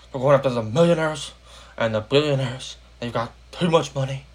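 put-on lightly done Bernie Sanders Brooklyn accent, rallying against the rich; a hint of Bernie's Brooklyn campaign-speech voice; horrible Bernie accent. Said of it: "sorry for my very horrible Bernie accent".

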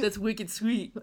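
teasing Boston drawl on wicked sweet; lightly put-on New England accent, teasing; mock Boston accent. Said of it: "I've never said that in my life".

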